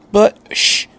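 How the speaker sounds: whispered shush; the doctor hushing the boy to listen, whispered; sharp hush. A narrator's reading. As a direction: cut him off with a hiss. Doctor hushing Shinji suddenly.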